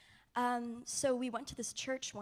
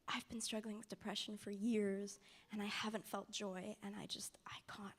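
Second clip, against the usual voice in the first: heavy, weighed down; 6 dB quieter than usual. Retold or imitated. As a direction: quote her burden quietly, sinking to near-whisper. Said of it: "she was just so heavy".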